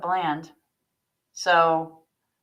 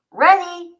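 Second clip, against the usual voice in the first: bright, higher and louder eager reply; a little burst of go-time excitement; eager ready; 10 semitones higher, 8 dB louder than usual. Acted. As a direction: pop up on your toes with it. Kat responds on her tiptoes.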